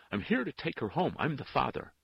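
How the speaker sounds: loud, high, desperate insistence; urgent plea. A narrator's reading. Father has come to take his girl home, desperate. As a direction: press the claim urgently.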